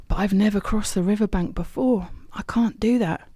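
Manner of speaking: scared little voice trailing to a whisper; fearful. Acted. Hope at the riverbank, scared and pleading. Hope repeats fear, higher.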